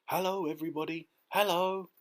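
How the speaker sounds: put-on small boy's happy hail from afar; cheerful calling out. A narrator's reading. Boy greets crowd from the peach, high calling. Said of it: "laughing and waving and calling out".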